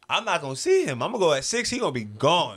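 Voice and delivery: loud, high retold alarm; worked up. Man watching the clock at work, worked up. Agonizing over missing the meeting.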